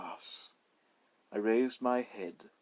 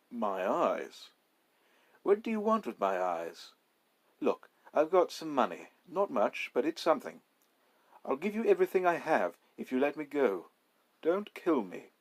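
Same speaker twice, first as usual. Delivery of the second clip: higher, louder, rushing to bargain; frightened pleading; 5 semitones higher, 4 dB louder than usual. Acted. Narrator begging the robber, frightened. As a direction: beg for your life, faster.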